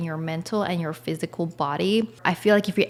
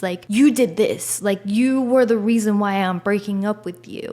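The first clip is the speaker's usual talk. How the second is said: angry blaming rant; 2 semitones higher than usual. Pretend. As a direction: throw the blame at the partner. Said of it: "But I get so mad at them".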